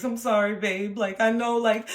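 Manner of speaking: sheepish apology. Retold or imitated. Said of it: "tail between your legs".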